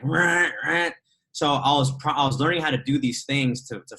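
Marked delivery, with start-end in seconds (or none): 0.0-0.9 higher mock alarm blare; blaring alarm noise, done by mouth; imitated alarm. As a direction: imitate a phone alarm going off. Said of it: "If not, it was like".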